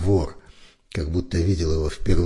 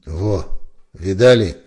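offended; 2 semitones higher, 7 dB louder, slower than usual. A narrator's reading. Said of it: "оскорблённо проговорил Барбур".

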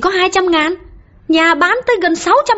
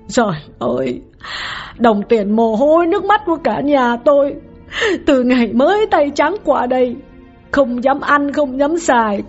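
a much higher woman's voice, lamenting in anguish; choked-up grieving wife; 13 semitones higher than usual. Acted. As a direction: pour out the grief of a betrayed wife. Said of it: "đau khổ lắc đầu nghẹn ngào".

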